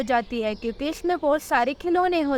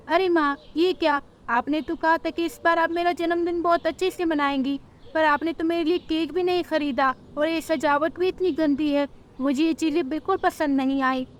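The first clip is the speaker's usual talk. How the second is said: put-on higher, complaining child voice; upset little girl; 4 semitones higher than usual. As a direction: whine about the bad party. Disappointed daughter complains.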